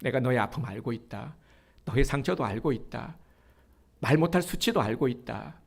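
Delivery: gentle, hushed fatherly comfort fading toward a whisper; tender reassurance. Acted. God reassuring a wounded believer, tenderly. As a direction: speak like God consoling a hurt child. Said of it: "하나님께서 우리에게 이 말씀을 하고 싶으신 거예요".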